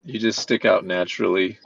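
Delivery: flat, even robot voice. Pretend. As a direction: speak like a booming metallic robot. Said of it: "in my robot voice".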